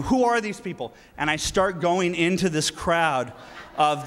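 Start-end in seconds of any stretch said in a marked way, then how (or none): 0.0-0.9 higher, agitated disbelief; retold bewildered outburst; freaking out. Speaker retelling his adrenaline rush in the crowd, freaking out. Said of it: "I'm freaking out. I'm going".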